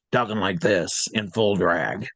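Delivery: imitating a deep-voiced drag comic. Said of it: "a really deep voice like this".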